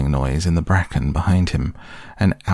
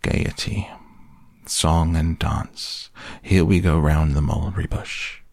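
gloomy. Acted. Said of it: "went on Eeyore gloomily".

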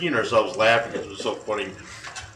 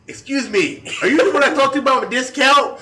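high, fast put-on Black American accent, laughing; Ebonics imitation; 13 semitones higher, 7 dB louder than usual. Revealing himself to the manager as the caller, high, fast, mock Black American accent. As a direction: revives the prank-call voice, pitched way up, quick and cheeky. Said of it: "Ebonics imitation".

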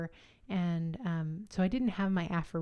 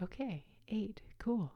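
whispered relief; 4 semitones higher, 7 dB quieter, slower than usual. Retold or imitated. Hearing she is eight centimeters.

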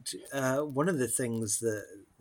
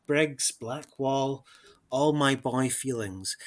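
slow, measured reading of verse; poem recital; 2 semitones higher, slower than usual. Acted. Reading his favourite Don Juan lines aloud, slow and measured. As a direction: recite it like a poem you love. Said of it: "here's what he writes".

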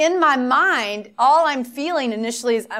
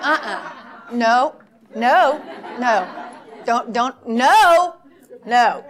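panicked refusal; much slower than usual. Retold or imitated. Retelling her panic at the pastor, flustered laughing refusal. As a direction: back away from the task, half laughing. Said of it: "And I was like".

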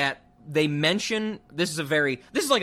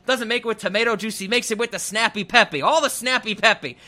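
put-on nagging old man; 5 semitones higher than usual. Podcaster quoting the old husband's drink rant, higher mock grumble. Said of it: "they start talking about".

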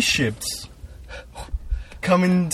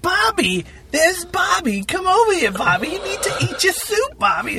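put-on much higher, louder old-lady voice calling a boy; sweet old lady; 3 dB louder than usual. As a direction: coo at him like a doting grandma. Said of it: "the old lady would be like".

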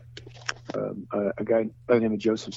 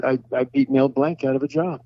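proud boast; 4 semitones higher, 4 dB louder than usual. Retold or imitated. Boasting about beating Mel Blanc.

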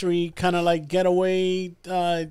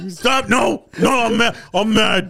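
mock angry protest; 5 semitones higher than usual. Friend imitating Danny being calmed by his ear, mock mad shout. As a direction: insist you're still angry while giggling. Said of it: "how you tame this animal".

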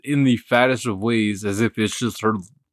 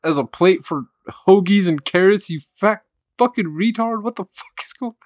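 mom's outburst; 6 semitones higher than usual. Retold or imitated. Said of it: "made my mom lose it".

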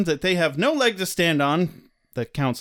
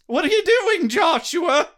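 scolding mom; 8 semitones higher, slower than usual. Pretend. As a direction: call him out like an exasperated mother. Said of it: "someone's missing their entrance".

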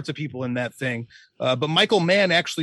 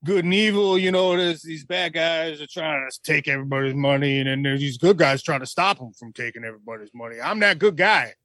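Herschel Walker impression. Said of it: "do Herschel Walker explaining the plot".

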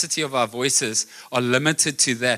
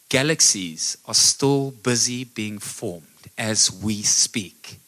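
ordinary talk, nothing marked

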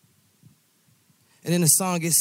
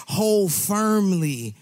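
preaching at full force; 2 semitones higher than usual. Acted. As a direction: build the crowd up with each line. Preaching climax over music.

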